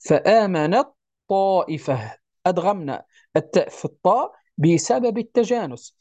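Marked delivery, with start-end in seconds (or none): 0.1-2.2 فآمنت طائفة said slowly, the ta of فآمنت doubled into the ta of طائفة; ta merged into ta. Shown as a demonstration. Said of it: "كيف نقرأها". (إدغام تاء فآمنت في طاء طائفة)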